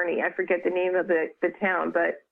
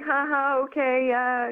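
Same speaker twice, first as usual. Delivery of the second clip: higher, awkward placating mock laugh; humouring; 5 semitones higher than usual. Woman humouring a strange child, awkward and placating. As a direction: brush it off politely, pitched up. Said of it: "trying to be like".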